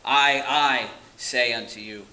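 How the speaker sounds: "I, I" drawn out and punched, the rest easier; emphasis on I. Shown as a demonstration. Preacher quoting Jesus emphasizing himself, with stress on "I, I". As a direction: hit both words of "I, I" slowly and firmly. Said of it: "he's showing emphasis on himself".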